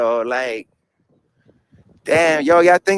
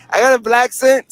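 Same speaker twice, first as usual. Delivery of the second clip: higher-pitched, surprised echo; amused disbelief; 5 semitones higher, 4 dB louder than usual. Real, not acted. Streamer reacting to viewers naming his accent, surprised. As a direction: repeat it back as if startled by the label.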